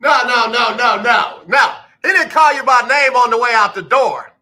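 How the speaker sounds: high, shouted playful protest; loud, high hyped-up reaction; excited disbelief. Real, not acted. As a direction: cry out in delighted disbelief. Playful disbelief at guest's story.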